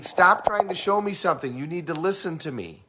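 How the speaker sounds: stressed. Acted. Auditory person answering visual partner, mock stressed. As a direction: push back, a little worked up. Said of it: "the auditory person is stressed".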